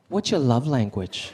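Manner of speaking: put-on low, slow girlfriend question; softly imitating a girlfriend; tender ask. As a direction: ask gently, drawing it out.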